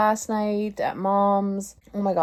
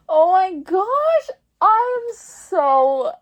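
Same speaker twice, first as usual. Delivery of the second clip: high, slow, louder crying laugh; 10 semitones higher, 5 dB louder, much slower than usual. Real, not acted. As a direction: wail it out through laughter.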